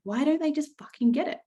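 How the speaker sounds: high, exasperated outburst; retold rage. Frustrated speaker venting at her in-laws, high and exasperated. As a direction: squeal out the frustration. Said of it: "I felt intense rage".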